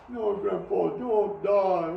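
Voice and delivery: high childlike whimper, mildly imitated; a lightly voiced crying child; crying grandchild. Grandchild pleading at the deathbed, lightly voiced crying. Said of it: "Oh, he's crying".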